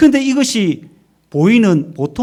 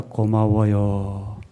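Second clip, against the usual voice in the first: gentle thanks; 4 semitones lower, much slower than usual. Shown as a demonstration. Wife answers her husband's love, slow and grateful. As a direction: stretch each syllable out gratefully. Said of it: "따라해봅시다".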